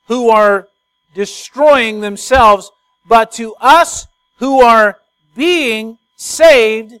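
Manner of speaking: scripture read slowly, stress on destroying themselves and us; slow emphatic reading. Acted. Preacher reading verse eighteen to the church, slow and emphatic. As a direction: lean on each phrase of the verse. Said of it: "he says".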